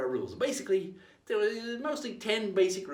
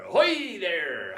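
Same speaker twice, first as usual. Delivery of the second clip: pirate greeting; 6 dB louder, much slower than usual. Shown as a demonstration. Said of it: "we said ahoy".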